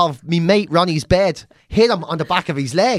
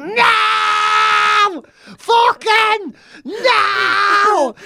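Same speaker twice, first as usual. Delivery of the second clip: terrified pleading; 14 semitones higher, much slower than usual. Retold or imitated. Boy begging his dad not to abandon him at the site. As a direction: beg your dad not to leave you. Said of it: "I was like".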